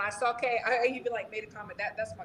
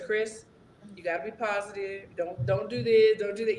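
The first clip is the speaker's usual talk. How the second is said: imitating a calm, slightly lowered coaching voice; steady, unhurried mock coach talk; 3 semitones lower than usual. Coach settling down his fighter, calm. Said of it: "like, so calm".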